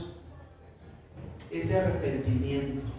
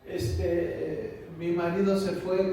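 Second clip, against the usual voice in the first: imitated weeping woman; slower than usual. Woman telling pastor her husband left, mildly imitated weeping. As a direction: lightly act a woman crying to her pastor. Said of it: "llega la mujer llorando y dice".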